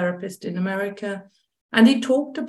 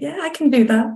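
louder, higher, cocky yes I can; mock superwoman confidence; 5 semitones higher, 5 dB louder than usual. To the physio, a hammed-up superwoman boast. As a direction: brag it like a superhero sure of herself. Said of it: "thinking I'm some superwoman going".

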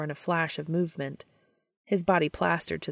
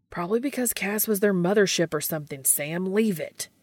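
barking; 3 semitones higher than usual. Acted. Dean cutting off Sam's questions about the coat, barking. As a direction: snap it out to shut him up. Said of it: "Dean barks".

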